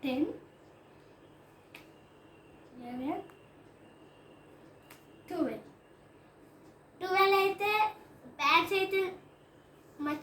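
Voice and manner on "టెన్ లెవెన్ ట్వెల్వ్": slow counting. Real, not acted. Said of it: "ఇప్పుడు నేను count చేసి".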